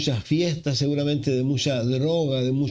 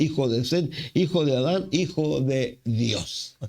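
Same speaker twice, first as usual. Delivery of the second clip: each "hijo de" name read in a steady chanting lilt, rising at the end; steady, lilting list of ancestors, each line rising; rhythmic genealogy recitation. Acted. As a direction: roll through the list like a litany.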